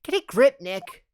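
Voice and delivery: high-pitched exasperated friend; scolding sidekick. Acted. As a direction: snap out of it, said high and sharp.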